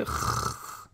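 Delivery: kh held slowly with no vowel after; bare consonant. Shown as a demonstration. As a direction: give kh alone, no vowel. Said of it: "c'est ni kha, ni khou, ni khi".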